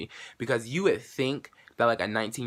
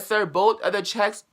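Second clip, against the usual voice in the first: mock raised voice; 9 semitones higher, 5 dB louder than usual. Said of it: "we're raising her voice".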